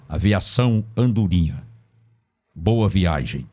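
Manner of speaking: a loudspeaker announcer reading out bus departures; bus station announcement. Retold or imitated. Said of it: "trabalhei naquele serviço de som".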